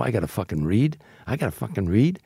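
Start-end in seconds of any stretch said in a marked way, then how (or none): 1.3-2.2 a hint of put-upon outrage in a changed voice; mock indignation. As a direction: repeat it as a wounded, insulted actor. Repeat of indignant reply, voice shifts.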